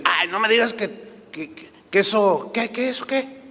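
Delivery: a hint of a flustered husband; flustered disbelief. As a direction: stumble over your words, caught off guard.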